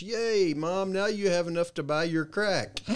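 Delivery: put-on high, excited child cheering; cheery kid yell. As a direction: shout it out happily like a little girl. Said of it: "my daughter yells".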